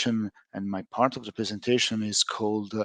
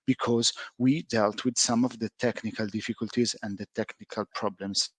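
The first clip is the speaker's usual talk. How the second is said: choppy voice on a bad connection; words dropping out over a weak line; radio breaking up; 3 dB quieter than usual. Real, not acted. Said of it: "you're breaking up".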